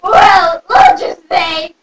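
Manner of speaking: slow, strained character croak; bunny fairy voice. Acted. Bunny fairy bargaining for candy, strained put-on voice. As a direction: drag it out in an odd sick voice.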